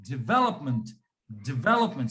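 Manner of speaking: "development" with a barely sounded DI and strong VE, falling low; very soft DI. Shown as a demonstration. Teacher shows the learner, soft DI in "development". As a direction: slip past the DI of "development" onto VE. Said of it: "my D I is very soft".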